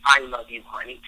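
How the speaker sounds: lightly voiced tender wife; very tenderly. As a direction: murmur it lovingly to husband. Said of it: "said very tenderly".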